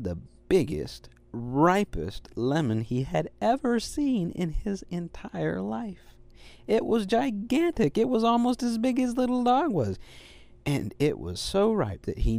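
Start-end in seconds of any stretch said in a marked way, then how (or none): 2.3-10.0 awed. A narrator's reading. Marveling at giant lemon.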